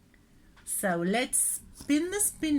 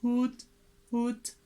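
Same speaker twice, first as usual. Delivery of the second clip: owl hoot. Shown as a demonstration. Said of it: "Hoot like an owl".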